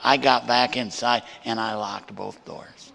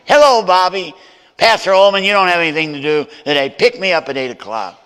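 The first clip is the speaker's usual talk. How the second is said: overly cheery greeting; 7 semitones higher, 11 dB louder, faster than usual. Retold or imitated. Pastor's sweet phone call, retold.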